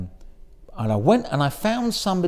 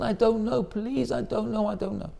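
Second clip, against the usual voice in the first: higher, fading softer plea; pleading; 5 semitones higher, 4 dB quieter than usual. Retold or imitated. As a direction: beg weakly, trailing off. Beaten rabbi pleading.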